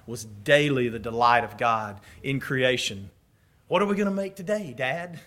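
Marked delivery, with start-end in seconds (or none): 3.7-5.2 lightly voiced child, soft and quick; quick, hushed childlike question; eager son to father. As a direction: ask Dad softly, like a kid.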